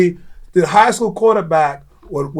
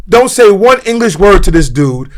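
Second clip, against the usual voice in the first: raised, higher voice giving orders; insistent coaching demand; 4 semitones higher, 3 dB louder than usual. Retold or imitated. Man challenging a coach to use only Korean, insistent demand. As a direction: press each instruction on the coach, worked up.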